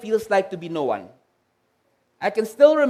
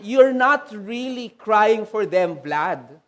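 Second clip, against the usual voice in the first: slow, measured voice of God; a lightly voiced God speaking slowly; much slower than usual. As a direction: let each word of God land slowly. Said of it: "God was saying".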